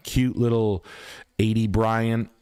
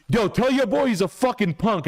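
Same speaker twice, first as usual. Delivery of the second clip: hammed-up dealer taunt; mock salesman yell; 11 semitones higher than usual. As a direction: sneer it like a street tough. Salesman insulting over phone.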